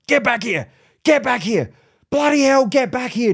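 high-pitched mock yell of an exasperated owner; imitated yelling. Lady across the lake to her runaway dog, imitated yelling. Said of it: "the owner is yelling".

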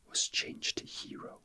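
normal talking voice

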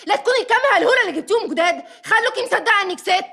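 heated telling-off; angry scolding. Acted. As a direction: scold sharply at a quick pace. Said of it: "بتزعقي ليه".

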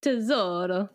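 Tesoro with a rolled Italian r; Italian accent. Real, not acted. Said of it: "Your name is Tezzy".

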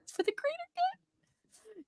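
high, slow, breathy mock-noble intoning; mock solemn slogan. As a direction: echo it like a grand sacrificial vow.

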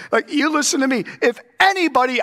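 high, loud, fast rebuke; stern warning as Paul. Retold or imitated. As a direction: raise the voice and jab the words. Paraphrasing Paul's stern warning.

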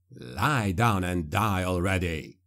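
grind it out through effort; gruff mercenary. A narrator's reading. Mercenary fights rat man.

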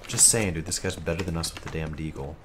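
toned-down grumble. Real, not acted. Gamer justifying himself after being told off, quiet grumble. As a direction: drop the yelling and say it small and low. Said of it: "Now stop yelling".

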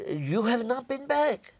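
high, slow, incredulous Belgian woman; high-pitched retold disbelief; accented Belgian woman. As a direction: imitate her astonished question. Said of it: "had a, an accent when she spoke".

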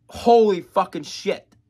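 loud, slow, stretched-out amazement; amazed. Real, not acted. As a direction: drag out the disbelief. Reacting to the vocal clip.

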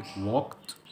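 "walked" as one syllable, wokt; T ending. Shown as a demonstration. Teacher explaining the ending after K, T sound. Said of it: "قبلها كي هتنطق تي".

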